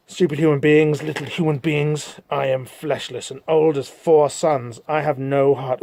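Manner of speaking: slow, contemptuous demon voice; slow demon gloat. Acted. Demon Orlando mocking the wounded humans, slow and sneering. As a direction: drag it out like an ancient sneering demon.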